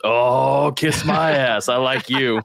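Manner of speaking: a hint of a hearty old-timer; retold old man's affectionate outburst; weird old man. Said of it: "this weird old man".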